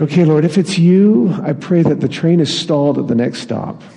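a hopeful Okay, Lord, set against the let-down; eager prayer. Retold or imitated. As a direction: pray it like you expect a sign.

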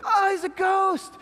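hammed-up panicked disciples; mock scared disciples. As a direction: play the disciples spooked and jumpy. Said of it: "they're immediately like".

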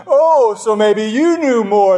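mock sarcastic jab; snarky. Pastor mimicking an angry first-draft email, snarky. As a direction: toss it off with a sneer. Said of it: "raging this and snarky questions".

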